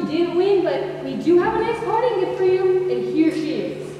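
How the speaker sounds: lightly hammed-up quiz host patter; mock game show host. Wife mocking husband as a game show host. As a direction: play a cheesy game show host, half sung. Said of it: "and the host said".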